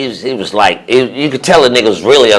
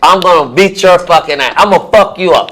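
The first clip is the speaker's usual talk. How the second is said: retold threat; 6 semitones higher than usual. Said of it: "I said".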